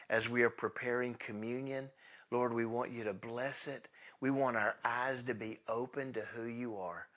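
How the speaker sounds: gentle pastoral prayer. Acted. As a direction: pray tenderly over the congregation. Leads closing prayer.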